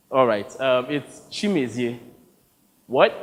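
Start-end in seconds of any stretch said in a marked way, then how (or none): 0.9-2.0 "Chimezie" as shee-MEH-zee-eh, quiet and careful; correcting pronunciation. Shown as a demonstration. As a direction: say "Chimezie" slowly, each syllable. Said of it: "correcting him on how to pronounce my name".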